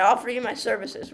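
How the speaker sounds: put-on retry the line in a light Irish accent; amateur Irish-accented pledge; attempted Irish accent. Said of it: "if that was an extremely offensive accent".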